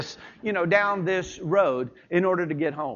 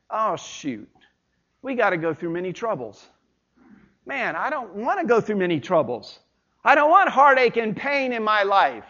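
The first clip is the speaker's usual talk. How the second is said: reluctant groan about troubles ahead; dismayed grumbling. Shown as a demonstration. Preacher voicing a disheartened reader of the verse, dismayed. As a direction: sigh it out, then protest the hardship. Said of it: "put the emphasis on the front part".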